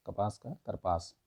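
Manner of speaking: "करपास" धीरे और साफ़, हर अक्षर अलग; "करपास" को धीरे से ज़ोर देकर दोहराओ; slow careful repeat. Shown as a demonstration. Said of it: "कपास का करपास होता है". ("करपास" धीमे, साफ़ उच्चारण में)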